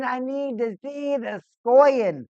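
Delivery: plain fan shout, no accent; loud demand. Real, not acted. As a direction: yell for goals like a fan. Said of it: "I need to see some more scoring".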